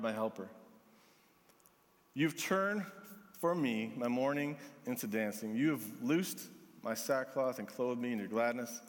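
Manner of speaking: measured, prayerful scripture reading, often dropping low; psalm reading. Acted. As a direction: read the psalm as an understated prayer.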